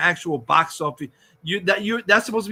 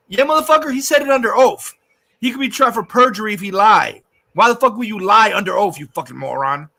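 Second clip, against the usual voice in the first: loud, raised-pitch angry rant; heated and emphatic; indignant rebuttal; 5 dB louder than usual. Real, not acted. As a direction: argue back hotly at a denier. Angry rebuttal to imagined deniers.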